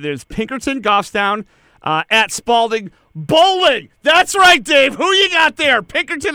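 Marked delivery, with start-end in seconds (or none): 3.1-6.3 much louder and higher mock announcer cheer; hammed-up hype. Cohost hypes bowling to Dave, loud mock excitement. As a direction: bellow it like a game-show host.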